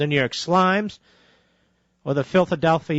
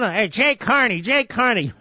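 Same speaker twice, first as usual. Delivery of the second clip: higher, hyped-up mocking chant of a name; mock excitement; 4 semitones higher than usual. Radio host mocking media fuss over new press secretary, mock excitement. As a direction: parody breathless newshounds.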